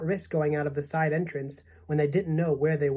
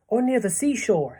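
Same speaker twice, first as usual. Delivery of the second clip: put-on higher, eager boyish suggestion; 6 semitones higher, 4 dB louder than usual. A narrator's reading. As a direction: pipe up hopefully. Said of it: "said James eagerly".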